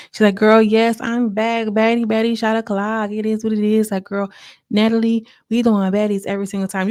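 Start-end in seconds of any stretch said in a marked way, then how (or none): 0.3-3.9 imitating an excited friend, slightly higher; upbeat retold catchphrases. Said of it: "She's so excited". 4.1-6.9 imitating an excited friend, a little lifted; mildly hyped girl-talk. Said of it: "she's just so excited to be there".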